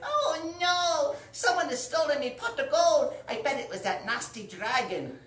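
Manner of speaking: put-on high, loud wailing leprechaun girl; mock-distraught cry for lost gold; Lucy upset. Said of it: "she's like".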